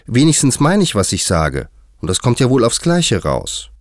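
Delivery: protesting, pitch jumping up; contradicting. A narrator's reading. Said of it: "widersprach Alice".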